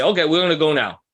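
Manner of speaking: brisk, a little fast order; abrupt. Retold or imitated. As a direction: snap it out like a hurried boss. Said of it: "they can be abrupt".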